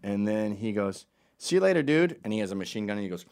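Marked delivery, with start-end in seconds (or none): 1.4-2.2 called-out goodbye. Retold or imitated.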